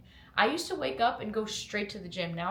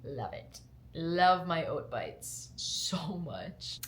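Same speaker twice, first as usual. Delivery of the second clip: whisper; much slower than usual. Real, not acted.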